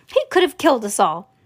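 mild, indignant outcry; outraged scream. Acted. Grandma Josephine accuses the crazy man, mildly outraged cry. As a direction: protest with some force, not a full scream. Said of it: "screamed Grandma Josephine".

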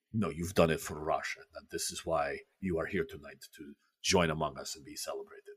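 lightly voiced gruff praise; Khrushchev voice. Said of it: "Khrushchev continues".

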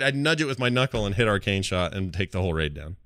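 ordinary talk

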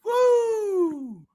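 high cheering shout; excited whoop. Real, not acted. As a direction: cry out in triumph. Wins a billion quiz dollars.

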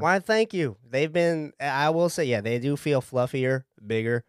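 easygoing Southern client; relaxed Southern talk; Southern accent. Acted. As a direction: chat modestly in a Southern accent. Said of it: "you're from the South".

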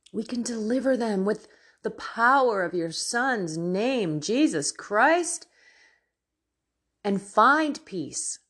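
earnest spoken prayer, rising to fervent pleas. Acted. Leading the viewers in prayer against sin, fervent prayer voice. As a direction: pray aloud with growing fervour, some lines dropping to a whisper.

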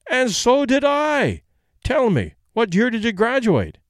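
high, slow, thrilled Irish voice; excited. Acted. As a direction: gush with delight at the coincidence. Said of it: "gets really excited".

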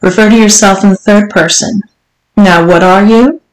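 lightly voiced strict madam, lifting at the question; commanding mistress. Mistress instructing her servant, mildly imperious. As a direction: lay down the rules as a demanding mistress. Voices the story's Missus Johnson.

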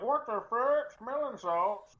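imitating a high-pitched baffled outburst; mock disbelief. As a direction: mimic the host's baffled exclamation, high. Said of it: "You're like".

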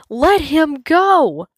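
high, loud, slow shout; commanding shout at the hyenas. A narrator's reading. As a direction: order the hyenas to let go. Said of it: "Kion shouts".

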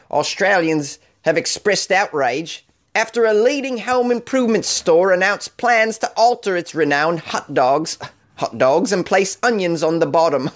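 a half-hearted stab at an Australian accent, reading the news; attempting an Australian accent that keeps slipping; failed Australian accent. Shown as a demonstration. Reading a news story to viewers, trying an Australian accent. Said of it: "I'm, uh, trying to do an Australian accent".

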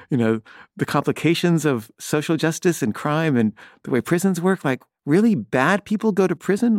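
retold inner rant, pitched high; recalled indignation, rising to a high question; incredulous. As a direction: scoff in disbelief at a stupid remark. Recalling disbelief at husband's stupid remark.

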